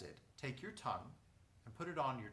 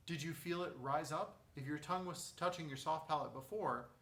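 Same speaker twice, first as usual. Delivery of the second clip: usual speaking voice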